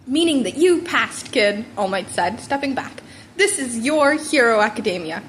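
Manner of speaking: a proud mentor's big finish; lightly voiced heroic closing; All Might voice.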